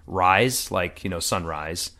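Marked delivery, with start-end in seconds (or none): 0.1-0.7 "rise" said the plain American way; American-English "rise", set apart as a word; American pronunciation. Shown as a demonstration. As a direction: say "rise" as in sunrise, on its own. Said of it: "the phrase in English or in American".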